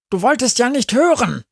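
hohe, schnelle Hundestimme, die anschnauzt; zu laut geschnauzt. A narrator's reading. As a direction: schnappt laut und hastig zurück. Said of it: "schnauzt Sami etwas zu laut". (laut und schnell geschnauzt)

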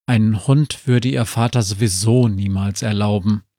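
ordinary delivery, nothing marked

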